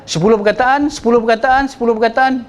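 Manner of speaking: sepuluh perkataan repeated with an identical beat each time; same rhythm. Shown as a demonstration. Teacher shows monotone sentences of equal length, flat repeated rhythm. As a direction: say sepuluh perkataan like a robot, no variation. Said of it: "sama je, datar je".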